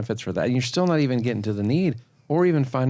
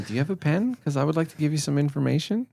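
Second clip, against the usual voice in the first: insecure question voice; 5 semitones higher than usual. Shown as a demonstration. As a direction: ask for a pen unsure of yourself. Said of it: "You're saying".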